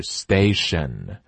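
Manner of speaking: station said slowly with a light d-like t; corrected station. Shown as a demonstration. Teacher giving the right station slowly. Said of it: "是station".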